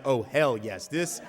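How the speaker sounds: high, loud and slow with a laugh; hooting committee members sure a showdown is coming; gleeful committee. Retold or imitated. Eager committee relishing the fight, loud gleeful glee. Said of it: "they are just like".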